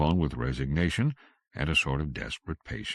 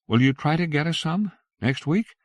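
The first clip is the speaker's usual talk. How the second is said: high, loud call after a truck; 13 semitones higher, 7 dB louder than usual. Acted. Missus Allison running after the truck, calling out loud. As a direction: call after him as you run.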